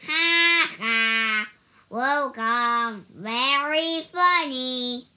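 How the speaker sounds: forced ha ha, then dry; fake laugh. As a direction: pretend to find it funny. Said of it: "He pretended to laugh".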